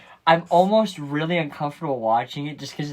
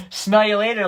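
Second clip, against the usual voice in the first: higher, lightly voiced cheeky schoolboy; 8 semitones higher, 6 dB louder than usual. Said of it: "like, schoolboy or something".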